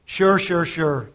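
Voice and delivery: mildly sarcastic brush-off; acted, understated sarcastic agreement. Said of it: "He said it sarcastically".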